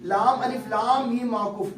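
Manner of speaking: लाम अलिफ लाम मीम spelled out slowly, letter by letter; teacher spelling the letters slowly for students; slow recitation. Shown as a demonstration. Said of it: "तलफ्फुज को गौर करो".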